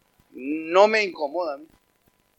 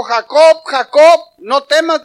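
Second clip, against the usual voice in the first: loud, raised call from on high; God calling; 8 semitones higher, 9 dB louder, slower than usual. Acted. God speaks to Jacob at a crossroads, loud raised calling. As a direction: call the name out, high and forceful. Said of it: "le habló y le dijo".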